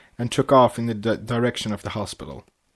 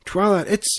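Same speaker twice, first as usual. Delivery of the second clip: excited yelp; 9 semitones higher than usual. A narrator's reading. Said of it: "Pinkie yelped".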